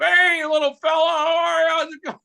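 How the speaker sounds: a man with a boil greets the paperboy cheerfully; cheery greeting. Retold or imitated.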